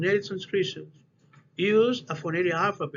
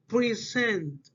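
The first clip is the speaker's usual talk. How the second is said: "present" stressed on its first syllable, falling after; 2 semitones higher than usual. Shown as a demonstration. Teacher showing students first-syllable stress, "present" front-stressed. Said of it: "the stress reflects in the first".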